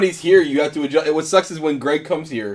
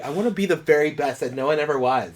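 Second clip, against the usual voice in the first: preschooler voice; 5 dB quieter than usual. Retold or imitated. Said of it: "Why does he sound like that?".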